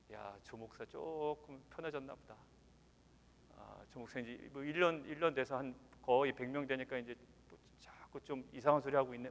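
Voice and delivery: hushed imitation of murmuring congregants; mock grumbling. Congregants gossip about their new pastor, quiet mock grumbling. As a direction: grumble softly as if behind the pastor's back.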